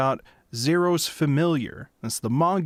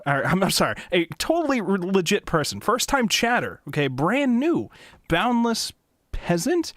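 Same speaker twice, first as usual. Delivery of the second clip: mock-enthusiastic spam reading; sarcastic reading; 4 semitones higher than usual. Shown as a demonstration. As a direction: read the bot message with fake excitement. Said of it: "I was gonna read it sarcastically".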